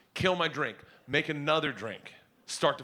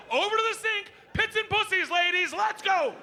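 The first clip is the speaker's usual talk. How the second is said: bigger drill-sergeant order. Retold or imitated. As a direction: repeat it even bossier.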